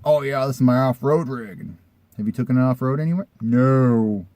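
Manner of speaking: mock bragging voice, a touch put on; mild mock of a know-nothing owner; lightly mocking the seller. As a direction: poke fun at his off-road boast. Mocking the guy's off-road talk.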